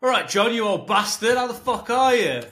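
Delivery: high, booming matey shout; over-the-top loud greeting. Acted. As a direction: blast them with rowdy familiarity. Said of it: "you don't wanna hit someone with that".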